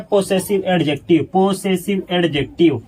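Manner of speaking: "possessive adjective" said very slowly and clearly; slow emphasis. Shown as a demonstration. Teacher to students, slowly naming the possessive adjective. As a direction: spell out "possessive adjective" syllable by syllable. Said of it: "कैसे पता चलेगा".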